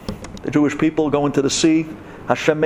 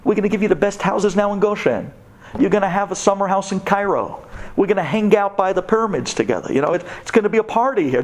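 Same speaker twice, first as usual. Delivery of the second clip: mock sweet Egyptian coaxing; 5 semitones higher than usual. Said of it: "They were telling us".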